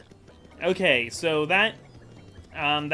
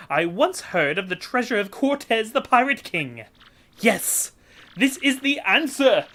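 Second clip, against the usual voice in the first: hammed-up Italian-style merchant, grand and theatrical; hammy Flavio accent; 5 semitones higher than usual. Voicing Flavio introducing himself to Mario, hammy Italian-style accent. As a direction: ham up a boastful rich trader with a put-on Italian lilt. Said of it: "need a voice".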